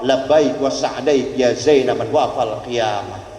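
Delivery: slow, low, solemn Arabic; lizard's reply. Retold or imitated. The lizard answers the Prophet, slow and solemn. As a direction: intone it like a devout answer.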